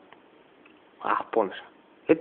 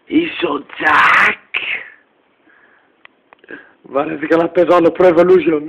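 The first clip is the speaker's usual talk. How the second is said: crying shout; 4 dB louder than usual. Acted.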